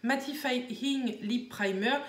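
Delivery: slow, careful attempt at an English accent. Shown as a demonstration. Vlogger reading a product name, English accent. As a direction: say it slowly in your best English accent. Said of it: "attention, mon accent anglais".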